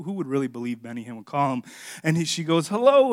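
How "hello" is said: a high, half-hearted try at a voice; failed impression attempt. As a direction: start the voice, then give up on it. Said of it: "I can't even do the voice".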